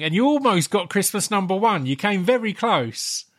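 ordinary delivery

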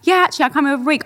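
light mock American accent. Answering as an American guy in a mock American accent. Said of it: "American accent's like".

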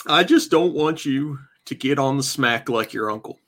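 lightly voiced gruff tough-love dad; a hint of a stern father talking to his son. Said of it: "in your daddest voice".

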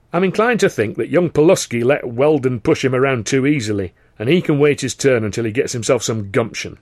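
booming theatre manager voice; Carno voice. Acted. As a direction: voice the showman boss. Carno's voice in story.

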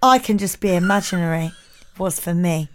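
deadpan reading in a light put-on accent; Keith accent. Keith texting his verdict to Jemima, in a light Keith accent. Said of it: "Do it in a Keith accent".

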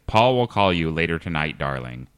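a hint of Texas in a walk-through; Texas accent. Shown as a demonstration. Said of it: "beginning in a Texas accent".

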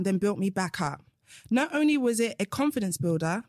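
measured reading of a testimonial; reading aloud. Acted. Coach reads a client's praise to the hosts, reading aloud. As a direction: read the review out with deliberate phrasing.

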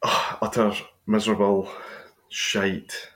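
stuffy head cold voice; croaky and bunged up with a cold; man flu. Real, not acted. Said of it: "I've got the man flu".

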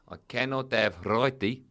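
stern South African agent; South African accent. Acted. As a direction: object firmly in a put-on South African accent. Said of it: "I'll do the accent".

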